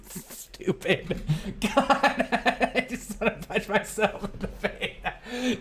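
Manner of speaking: high, drawn out through laughter; helpless giggling at yourself; real laughing fit. Real, not acted. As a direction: squeal it while cracking up. Cracking up after the prank.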